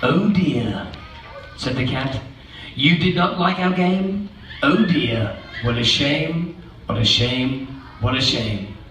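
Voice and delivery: low, soft disappointed sigh; sad cat. Acted. Cat sighing at the children, disappointed. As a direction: fade away sadly. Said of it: "And the cat says".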